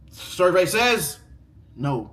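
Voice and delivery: slow, drawn-out reveal; announcing the verdict like a game show; game show host. Pretend. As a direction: stretch it like a quiz host.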